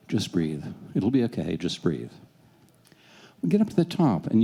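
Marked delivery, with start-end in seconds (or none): 0.1-2.1 reassuring. Retold or imitated. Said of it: "I'm going to the kids".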